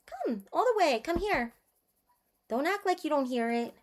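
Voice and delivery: high soft coo to a pet. Real, not acted. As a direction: sweet-talk the kitty softly. Cooing to her cat on stream.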